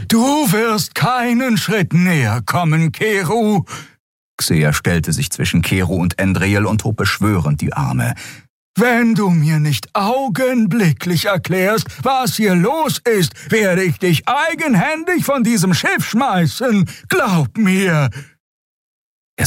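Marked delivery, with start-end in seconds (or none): 0.1-3.7 high, slow, defiant little creature voice; protective creature. A narrator's reading. Nelen protects her friend. 8.8-18.1 put-on high, slow, shouted old-woman threat; furious threat. A narrator's reading. Xea threatens Kero.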